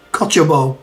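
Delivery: Cochobo with a hard K start, ko-cho-bo; Cochobo, hard K then CH sound; Cochobo pronunciation. Shown as a demonstration.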